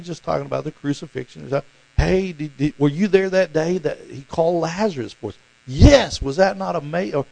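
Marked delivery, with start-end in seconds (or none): 2.0-7.1 lively, rising excited voices; eager recollection. Pretend. Disciples on the road recalling miracles, excited. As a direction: swap wonder stories breathlessly.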